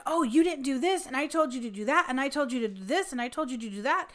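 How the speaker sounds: retold scolding. Doctor scolding his driver on the phone, mock yelling. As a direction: reel off accusations, imitating a cross boss. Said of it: "he was yelling at Brian and saying".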